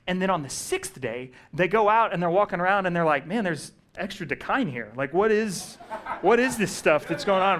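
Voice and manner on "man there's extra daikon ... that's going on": laughing, raised, puzzled mock question. Israelites finding extra food, laughing puzzled. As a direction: chuckle through a bewildered crowd line.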